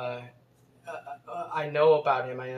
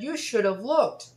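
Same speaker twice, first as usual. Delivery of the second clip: high, slow mock scolding; slow, raised complaint from the scooter lady; 7 semitones higher, 5 dB louder than usual. Lady's complaint acted out.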